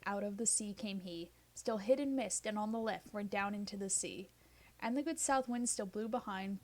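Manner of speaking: measured, rhythmic reading of ballad verse; poem recitation. Acted. Reading the Ancient Mariner aloud for listeners, rhythmic poem voice. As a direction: let each stanza roll with its beat.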